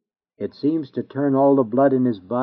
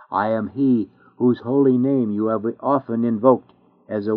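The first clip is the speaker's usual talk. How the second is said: stern accusation that sinks to a grave close; terrible judge. Acted. The inexorable judge condemns the sinner, stern then grave. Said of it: "he will call them out with a terrible voice".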